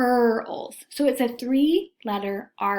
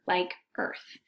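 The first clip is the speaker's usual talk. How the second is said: whispered; 4 semitones lower, 6 dB quieter than usual. Shown as a demonstration. Teacher sounding out example word.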